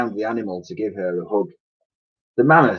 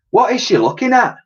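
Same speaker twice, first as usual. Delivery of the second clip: very high, louder Dotty voice; puzzled question; Dotty puzzled by the mammoth's gaze; Dotty asking; 6 dB louder than usual. A narrator's reading. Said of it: "asked Dotty".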